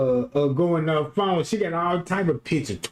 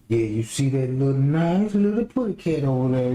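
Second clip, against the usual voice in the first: lightly lowered nature-show guide voice; mock professional narrator; 4 semitones lower than usual. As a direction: coax like a hunting guide. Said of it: "if you want me to talk professional".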